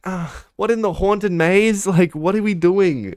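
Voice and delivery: baffled at the silly scare; incredulous. Retold or imitated. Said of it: "And I'm like".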